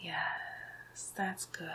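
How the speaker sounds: soft, drawn-out villainous purr; hushed approval. Acted. Villain praising his entranced victim, hushed and satisfied. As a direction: praise your puppet very quietly.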